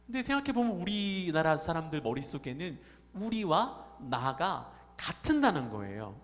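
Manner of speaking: normal talking voice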